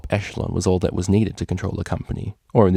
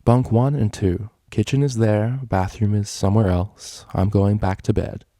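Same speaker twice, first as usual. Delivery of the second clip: drowsy, slow tired voice; half asleep, yawning; sleepy. Acted. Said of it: "the tired mare".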